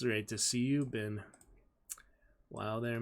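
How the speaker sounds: plain reading voice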